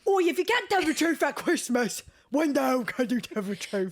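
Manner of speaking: hammed-up British accent, high-pitched; over-the-top mock British accent; exaggerated British accent. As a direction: parody the film quote in a broad British accent. Parodies the badly accented film quote.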